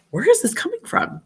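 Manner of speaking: alarmed mother's question; startled worry. Retold or imitated. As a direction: caught off guard, ask it high. Mom startled by son's tears.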